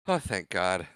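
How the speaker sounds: understated mock deliverance; weary relief. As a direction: act out grateful, exhausted release. Old man relieved to die.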